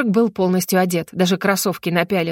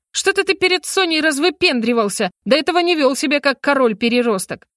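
scolding; 5 semitones higher than usual. Acted. Heroine scolds the mage.

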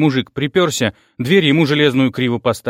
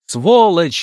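loud, high furious yell; 6 semitones higher, 4 dB louder than usual. A narrator's reading. Rita yells the insult at Karina down the phone. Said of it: "заорала она".

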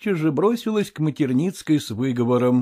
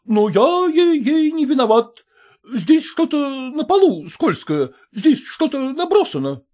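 flustered officer; 10 semitones higher than usual. A narrator's reading. Officer excuses himself to the mother, high and flustered. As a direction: protest his innocence, higher.

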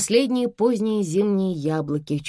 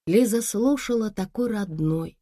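usual speaking voice

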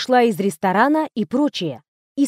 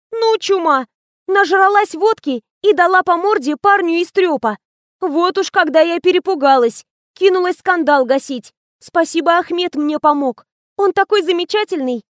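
put-on young assistant gossiping; 7 semitones higher, 3 dB louder than usual.

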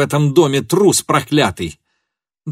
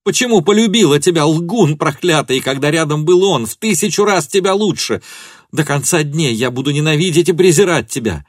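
high, raised, impassioned accusation; furious tirade; 7 semitones higher, 4 dB louder than usual. A narrator's reading. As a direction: pour out hatred and hurt at him. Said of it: "закричала она".

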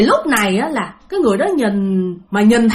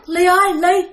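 lightly voiced man calling her out; a hint of a ghost summoning her; mild call; 5 semitones higher than usual. Ghost man calls Ly to come out, light raised call. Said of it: "mà ổng quát".

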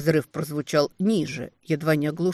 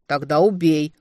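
louder angry retort; 6 dB louder than usual. Acted. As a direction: spit it back in anger. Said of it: "зло отозвался демон".

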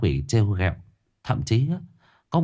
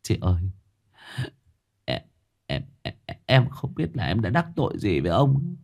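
whimpering plea; 6 semitones higher than usual. Acted. The haunted young man whimpers to Thư, building to a high wail. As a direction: start hushed and stuttering, then wail higher and higher. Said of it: "Tôi mếu máo".

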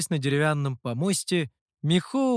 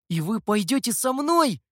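higher, hopeful lift; heartened; 7 semitones higher, 3 dB louder than usual. A narrator's reading. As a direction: ask with sudden hope. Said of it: "воодушевился Сяо Ту".

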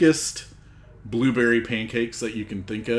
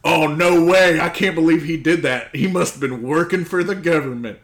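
high loud mock outrage; mocking gullible voice; 4 semitones higher, 7 dB louder than usual. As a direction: play the gullible believer. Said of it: "and they're like".

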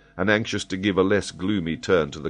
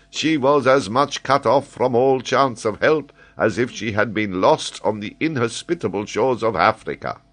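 high, louder, lively professor voice; an excitable scholar holding forth; high, animated geographer explaining; Paganel, eager learned Frenchman; 9 semitones higher, 6 dB louder than usual. Acted.

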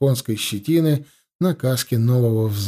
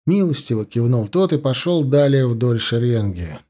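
plain reading voice

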